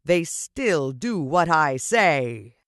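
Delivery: slow, menacing gloat from a lightly voiced villain; villainous teacher. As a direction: lean into each word like a smug tyrant.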